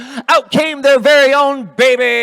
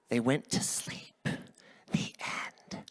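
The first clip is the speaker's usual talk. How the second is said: soft story ending; 8 semitones lower, 14 dB quieter, slower than usual. A narrator's reading.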